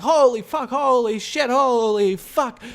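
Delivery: high, loud mock-panicked cries; drawn-out, high, freaked-out exclaiming; imitated panic. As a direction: act out a crowd losing it. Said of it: "Everybody's, like, losing their shit".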